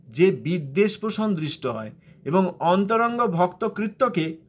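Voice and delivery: measured recitation of a scripture passage; slow careful reading. Shown as a demonstration. Preacher reading Prabhupada's sentence aloud, slow and measured. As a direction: read it out slowly, word by word. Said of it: "ধীরে ধীরে এই বাক্যটা পড়ি".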